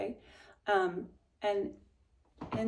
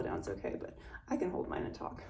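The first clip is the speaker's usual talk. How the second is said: whisper; 6 dB quieter than usual. Real, not acted. Teacher whispers aside while holding viola.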